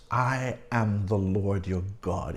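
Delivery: low, measured quote of the Almighty; emphatic divine declaration. Acted. Preacher quotes the six words of commandment, low and emphatic. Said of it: "emphasizing commandments with these".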